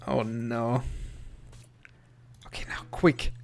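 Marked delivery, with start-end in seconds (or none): 2.5-3.3 tense whispered urging; urgent whisper. Real, not acted. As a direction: whisper hurriedly under pressure. Urgent rescue moment.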